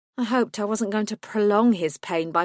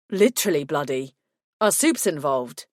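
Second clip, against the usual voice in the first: concerned lover voice; 4 semitones lower than usual. Acted. Lucas voiced lower.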